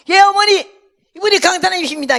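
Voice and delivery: loud, high and fast; shouting to be heard. Retold or imitated. Pastor shouting the introduction to his hard-of-hearing mother, loud and fast. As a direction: raise your voice so grandma hears.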